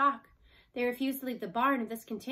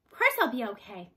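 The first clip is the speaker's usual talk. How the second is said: put-on tough old cow; 7 dB louder than usual. A narrator's reading. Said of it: "the cow panted".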